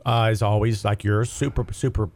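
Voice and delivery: rough, scratchy cold-sick voice; gravelly throat from a cold. Real, not acted. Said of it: "you can probably hear my little, uh, gravelly voice".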